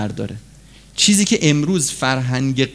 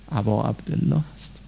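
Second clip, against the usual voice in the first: much softer and lower, ending on a gentle rise; hushed echo; 6 semitones lower, 9 dB quieter than usual. Shown as a demonstration. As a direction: let ابا عبدالله هست sink to a soft, low echo with a small rise on عبدالله.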